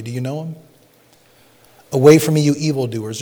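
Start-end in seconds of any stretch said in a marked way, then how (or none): 1.9-3.2 loud commanding 'Away from me'; stern rebuke. Shown as a demonstration. Preacher thundering Jesus' words at the congregation, loud. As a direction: cast them off with force. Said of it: "Or you can say it like this".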